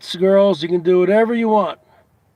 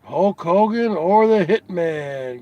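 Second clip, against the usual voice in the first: ordinary talk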